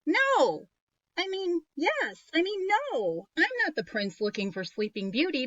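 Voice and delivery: eager prince asking a favor. Acted. Flustered prince in read story.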